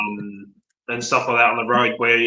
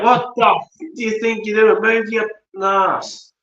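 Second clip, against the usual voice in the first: road rage yell; 10 semitones higher than usual. Retold or imitated. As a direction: bellow it out the car window in a rage. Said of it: "So I yelled out".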